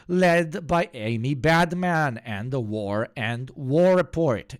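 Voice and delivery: slow, loud announcer build to "Report"; mock announcer. Streamer parodying the news intro, slow mock announcer. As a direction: intone the title like a grand broadcast.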